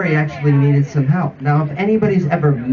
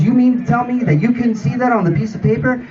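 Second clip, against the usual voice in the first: incredulous boss; 5 semitones higher than usual. Acted. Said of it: "Turns and looks at me and says".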